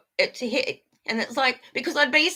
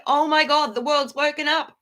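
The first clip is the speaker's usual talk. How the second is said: louder, higher exclamation of amazement; mock celebration; 4 semitones higher, 4 dB louder than usual. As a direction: exclaim it like imagined onlookers celebrating. Acting out the celebration she demands.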